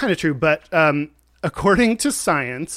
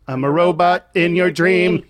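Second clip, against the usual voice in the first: robot voice; 2 semitones higher, 4 dB louder than usual. Pretend. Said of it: "That was the dream robot".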